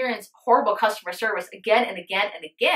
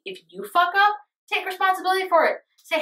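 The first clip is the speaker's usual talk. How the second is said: heated urging; 10 semitones higher than usual. Real, not acted. Heated advice to viewers.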